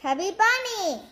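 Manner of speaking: cheeks stuffed full. Real, not acted. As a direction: mouth packed with marshmallows. Marshmallows stuffed in mouth.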